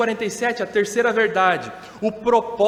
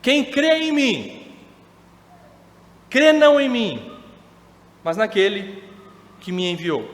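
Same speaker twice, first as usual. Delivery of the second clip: slow, raised proclamation of Jesus; proclaiming aloud. Acted. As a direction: cry it out to the crowd, drawn out. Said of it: "E Jesus clamou, dizendo".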